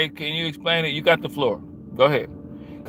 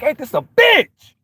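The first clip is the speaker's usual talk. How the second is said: high, slow put-on voice of an annoyed racist; mock racist grumble; 11 semitones higher, 6 dB louder, slower than usual. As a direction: sneer it out as the annoyed viewer. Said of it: "You like".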